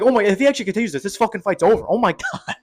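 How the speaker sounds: fast, rising excited rush; racing through it in disbelief. Retold or imitated. Fan watching his pick collapse, excited and fast.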